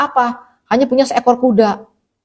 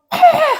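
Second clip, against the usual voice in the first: short high mock shriek; imitated shriek. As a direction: mimic a worn-out mother's sudden yell. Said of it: "langsung dia teriak-teriak".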